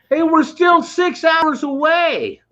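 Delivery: high, slow mock call to a friend; calling across the lot in a kid's voice; retold yell. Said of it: "he yells at his partner".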